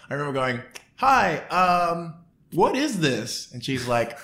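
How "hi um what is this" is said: put-on curious teen self. Teen asks what's going on.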